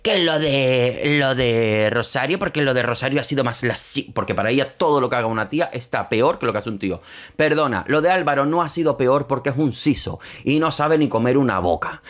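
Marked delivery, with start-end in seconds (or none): 0.0-7.0 imitating Terelu. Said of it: "Terelu otra vez".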